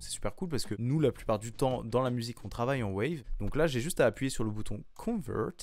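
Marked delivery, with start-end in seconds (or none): 5.0-5.5 "Convert" in a put-on English accent. Shown as a demonstration. Tutorial host naming the button to press, English accent. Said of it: "Vous avez vu cet accent anglais?".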